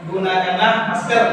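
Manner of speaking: "gunakanlah masker" given as an instruction; command intonation. Shown as a demonstration. Teacher repeating the example for students, "gunakanlah masker" as a command. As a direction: direct the listener with "gunakanlah masker". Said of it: "Ini adalah intonasi perintah".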